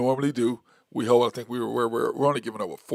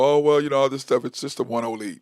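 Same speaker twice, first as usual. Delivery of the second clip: louder opening, then easing off; mock fired-up; 4 dB louder than usual. Host mimicking fans over a one-game lead, mildly worked up. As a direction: lightly imitate an overexcited fan. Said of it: "don't get all fired up".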